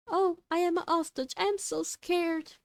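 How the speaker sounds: hammed-up damsel in distress; fake scared hostage. I hope your acting.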